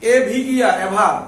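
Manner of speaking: spelled out loudly, letter by letter; spelling aloud. Shown as a demonstration. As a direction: call out the spelling to the class. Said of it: "কি আছে বলো তো?". (জোরে বানান করে বলা)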